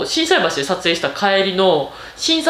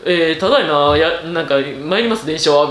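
train conductor voice; 5 semitones lower than usual. Retold or imitated. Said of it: "クリス・ペプラーみたいな声してたんですよ".

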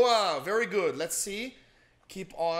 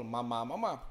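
put-on baby babble; 5 semitones lower, slower than usual. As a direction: babble it back like a baby copying mom. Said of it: "Aí você acaba falando".

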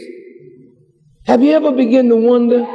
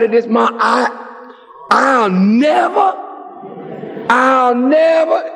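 desperate begging son. Retold or imitated. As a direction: beg her to get you out, voice cracking on never. Son begging mother for bail.

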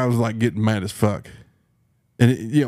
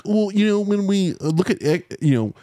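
higher, hedging salesman tone; mock adjuster; 4 semitones higher than usual. Mimicking the adjuster's evasive, higher-pitched hedging. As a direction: fumble like a smooth-talking adjuster. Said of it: "he's like".

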